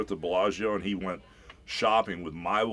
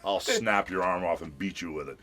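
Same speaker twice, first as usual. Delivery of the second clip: Hollywood Hogan heel. Retold or imitated. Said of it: "one of those Hollywood Hogan lines".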